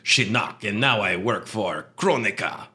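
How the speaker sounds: lightly voiced bug traitor; flittery bug voice. D'Vorah voice listing her masters.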